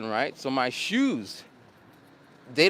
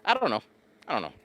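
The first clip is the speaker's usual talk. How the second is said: imitating a student; faster than usual. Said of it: "I got a student who always says".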